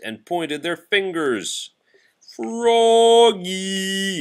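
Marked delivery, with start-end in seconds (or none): 2.4-4.2 high loud call across the bus; a kid shouting Froggy; yelling friend. A narrator's reading. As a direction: yell his name to get his attention. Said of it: "yelled his friend Max".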